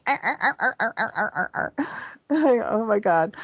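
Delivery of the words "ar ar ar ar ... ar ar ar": high, laughing dolphin chatter "ar ar ar"; imitated dolphin laughter. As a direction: mimic dolphins cackling at you. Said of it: "And they're going".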